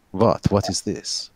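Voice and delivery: put-on lightly accented, vaguely French-Germanic character voice; a touch of muddled European accent. Game master voicing a player's startled character, lightly put-on European accent. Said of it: "Why have I got this accent?".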